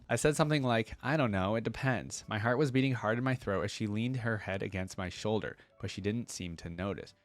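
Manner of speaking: steady storybook reading voice; story narration. Acted. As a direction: read it like a gentle love letter. Reads lore letter aloud.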